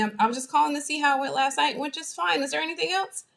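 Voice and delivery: high, brisk, dismissive call; short, terse. Acted. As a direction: act coolly efficient with a friend. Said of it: "really short with you, really terse".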